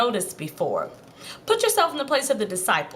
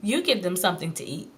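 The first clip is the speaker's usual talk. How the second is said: calm, even statement of fact; no-fuss, matter-of-fact reply; 3 semitones lower, 3 dB quieter than usual. Acted. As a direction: say it plainly, as if obvious. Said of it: "matter-of-factly says".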